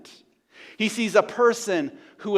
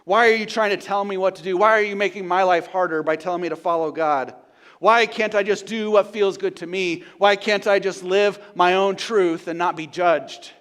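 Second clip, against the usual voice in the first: louder, pressing questions; voicing the world's complaint; 5 dB louder than usual. Preacher voicing the world crying out against God, indignant. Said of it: "crying out and saying".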